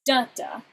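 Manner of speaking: da da, first stressed; strong then weak; trochee rhythm. Shown as a demonstration. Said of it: "So you have that trochee".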